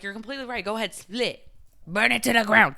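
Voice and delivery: hyped-up enabler, building to a loud finish; mock go-ahead from a reckless friend; egging-on friend. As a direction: start hushed, then punch out the last command.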